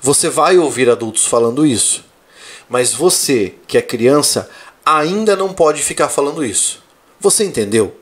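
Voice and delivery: calm fatherly explanation; father gently teaching son; patient father. Retold or imitated. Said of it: "daí eu falo assim".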